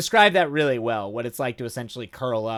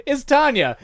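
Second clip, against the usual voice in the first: playful reveal; 13 semitones higher, 7 dB louder than usual. Acted. Introducing the heart-eating vampire.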